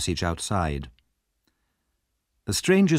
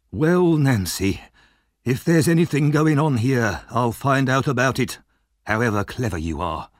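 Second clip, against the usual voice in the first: sly Fagin; 3 semitones higher than usual. Acted. Fagin slyly scheming about Nancy on the stairs. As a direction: plot under your breath.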